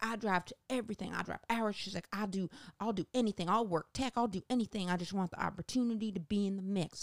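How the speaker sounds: pleading earnest hopeful; impersonating eager actress. Retold or imitated. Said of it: "best impersonation I can do".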